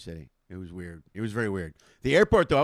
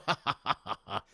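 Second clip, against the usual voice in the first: forced polite laugh; 2 semitones lower than usual. Retold or imitated. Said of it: "And I'm supposed to go".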